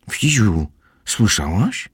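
lekko przerażona dziewczynka, wyżej; przerażony głos. A narrator's reading. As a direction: zapytaj wyższym głosem, z nutą przestrachu. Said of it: "powiedziała przerażonym głosem". (umiarkowane przerażenie w głosie)

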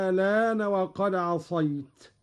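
long opening "aa" in الآن, then "laan" without a glottal stop; ibdal with naql. Shown as a demonstration. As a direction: draw out the first vowel of الآن and glide into "laan". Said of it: "فيها الإبدال".

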